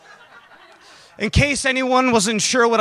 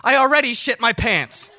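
yell; 5 semitones higher than usual. Acted. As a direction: call it out to your wife, half-yelled. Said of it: "I yell".

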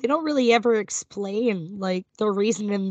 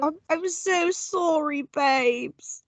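mock apology; 5 semitones higher, slower than usual. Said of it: "He's like".

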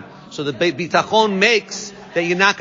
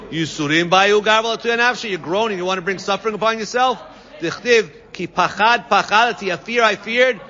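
raised, scolding rebuke; scolding shout; 3 semitones higher than usual. Acted. Rabbi scolds the groaning student, a raised scolding shout.

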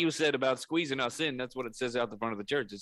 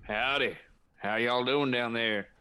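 put-on Southern preacher accent; 3 dB louder than usual. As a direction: lay on a homely Southern American preacher accent. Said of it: "people take me more seriously when I talk like this".

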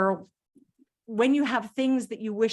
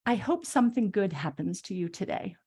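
tender wish; 4 semitones lower, 4 dB quieter than usual. Shown as a demonstration. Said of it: "and just say".

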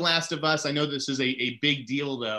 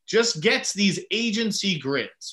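higher-pitched, slowed rant with emphasis; 5 semitones higher, 3 dB louder than usual. Real, not acted. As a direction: lay it out slowly, worked up. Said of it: "started on a rant".

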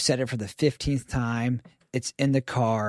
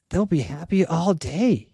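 imitating the painter; 6 semitones higher, slower than usual. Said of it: "He's like".

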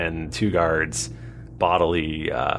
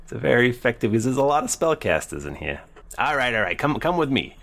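lightly voiced weaselly cellmate; a hint of a sly lizard prisoner; feral wasteland raider; 3 semitones higher than usual. Dragonborn cellmate talks.

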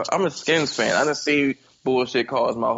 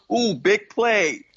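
mocking; 7 semitones higher, much slower than usual. Mocking Falcons play call.

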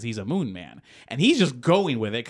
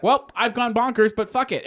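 lightly voiced astronaut, higher in pitch; acted resignation; 10 semitones higher, 6 dB louder than usual. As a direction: throw it out as a comic give-up. Acting astronaut giving in to madness.

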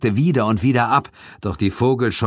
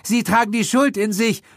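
high, desperate pleading; desperate accomplice pointing at others; 13 semitones higher than usual. A narrator's reading. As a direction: shift the blame in a frantic rush. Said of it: "rief Gildritch verzweifelt".

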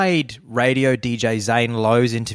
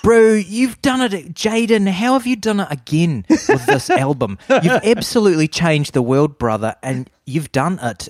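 Zane Lowe impression; 6 semitones higher than usual. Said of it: "And then Jaden goes".

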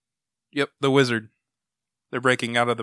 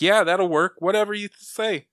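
higher, eager yes-man voice; mock eager agreement; 7 semitones higher than usual. The family mocking how they always agree with Reed, eager and compliant. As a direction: gush agreement like a pushover.

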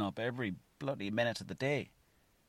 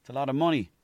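gloating laugh; 6 semitones higher, 10 dB louder than usual. Retold or imitated. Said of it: "they're laughing at it".

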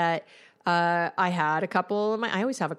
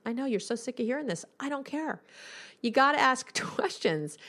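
playful teasing; 5 semitones higher than usual. Real, not acted. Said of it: "teasing the listeners".

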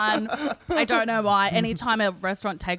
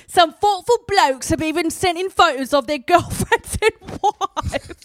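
higher, louder hammed-up reading voice; put-on voice; 7 semitones higher, 4 dB louder than usual. Reading the magazine quote aloud in a hammed-up voice. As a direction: read it like a pompous reporter. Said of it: "Do the voice".

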